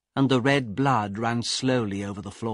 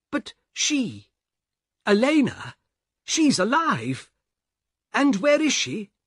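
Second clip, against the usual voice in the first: high, rising alarmed questions; a frightened man demanding answers from the guard; shocked disbelief; 8 semitones higher than usual. Acted. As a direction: refuse to believe it.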